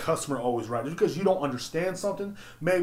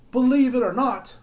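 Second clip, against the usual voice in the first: slow, high, put-on announcer; hammed-up slow pitch line; drawn-out announcer voice; 10 semitones higher, 7 dB louder than usual. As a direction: stretch it out like a TV pitch. Repeat, slow and far.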